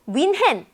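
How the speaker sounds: 뮌헨 said Korean-style with an h in "hen"; Korean pronunciation. Shown as a demonstration. Teacher contrasting the familiar name, Korean pronunciation of 뮌헨. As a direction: say 뮌헨 high and clear as "mwin-hen". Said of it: "세상에 이게 이렇게 발음이".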